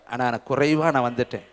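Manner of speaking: sudden drop to a low, soft, spent voice; broken Naomi. Retold or imitated. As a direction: let the grief collapse. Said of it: "நகோமி சொல்றாங்க".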